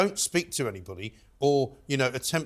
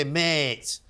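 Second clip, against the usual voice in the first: put-on "Mate" in a Manchester accent; quick mock Mancunian "Mate". Showing how Manchester would say it, mock Manchester accent. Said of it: "up in Manchester, they don't talk like that".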